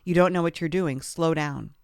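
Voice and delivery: loud, bossy backseat-driver orders; a loud husband correcting her driving; nagging husband. Retold or imitated. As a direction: snap the orders at her from the passenger seat.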